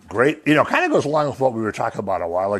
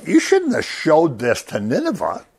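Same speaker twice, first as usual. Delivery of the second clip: laughing, higher mock reproach; laughing Jonah; 6 semitones higher than usual. Jonah reproaching God about Nineveh, laughing mock reproach. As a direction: scold God while chuckling. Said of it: "But he says".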